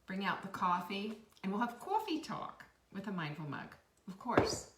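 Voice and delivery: playful put-on Long Island accent. Shown as a demonstration. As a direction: throw down some Long Island coffee-talk. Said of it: "I can throw that down".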